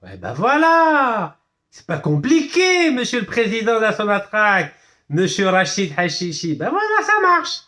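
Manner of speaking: high, stretched-out cheering; triumphant exclamation. Real, not acted. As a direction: crow it out with showy delight, pitch soaring. Exults to president that site works.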